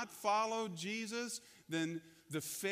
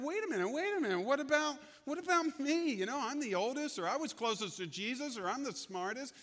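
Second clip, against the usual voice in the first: jealous disciples; 4 semitones higher than usual. Retold or imitated. Angry disciples running at him.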